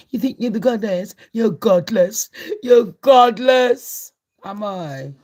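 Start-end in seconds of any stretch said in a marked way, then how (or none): 0.1-2.3 taunting retort. Acted. Mock-roasting a rival. 2.6-4.1 slow, much higher, loud yell of the insult; yelled taunt. Acted. Repeats the taunt, yelling it.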